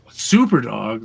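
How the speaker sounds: "Super Dog?" with a disbelieving question lift; incredulous question. Retold or imitated. Mocking the heroes for calling the dog, an incredulous question. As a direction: repeat it as if you can't believe it.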